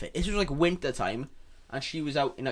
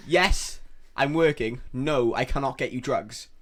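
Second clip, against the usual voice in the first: exasperated refusal; 4 dB louder, slower than usual. Retold or imitated.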